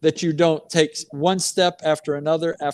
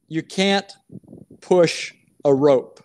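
slow, "push" leaned on, a pause before it; slow saying; slower than usual. Retold or imitated. Coach passing on a Southern saying, slow and stressed. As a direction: deliver "You can't push a rope" as a slow homespun proverb. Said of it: "I would tell Branko this".

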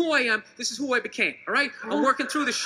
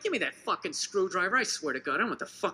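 grumbling dad impression; 2 semitones lower than usual. Dad grumbles at his son over a broken thing, lightly voiced. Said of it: "He'd see something broke".

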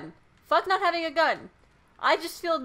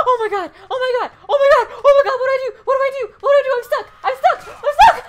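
higher, louder frantic yells; panicked shouting; 7 semitones higher, 9 dB louder, much faster than usual. Real, not acted. Trapped in horror game, panicking.

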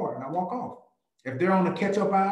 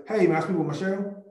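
cold call opener; 5 semitones higher, faster than usual. Shown as a demonstration.

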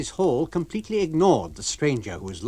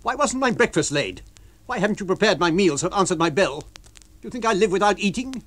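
higher, louder lodger complaining; angry stranger; 7 semitones higher, 5 dB louder than usual. Acted. Lodger scolding the landlady about breakfast. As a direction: demand your meals.

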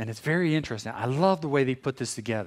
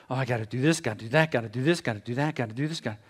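rapid singsong list, each item rising; caught-up busyness; much faster than usual. Acted. Pastor mimicking people caught up in tasks, hurried. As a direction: rattle off the to-dos without a breath. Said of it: "caught up what we're doing".

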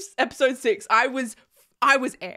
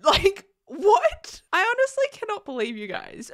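laughing disbelief; 7 semitones higher than usual. Real, not acted.

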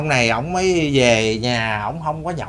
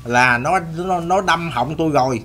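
mock cry for help; 2 semitones higher than usual. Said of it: "nghe cái tiếng dội bên kia dội qua là".

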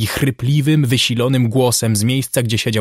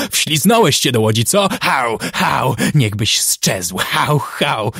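louder, mock dog-like barking insults; imitated barking abuse; 3 dB louder than usual. Jim mimicking the crew yelling at him in the boat. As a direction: bark the abuse like snarling mongrels.

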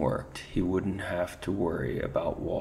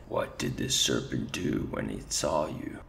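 gruff commander; 7 semitones lower than usual. Acted. Rat commander echoing his soldier in disbelief, low growl.

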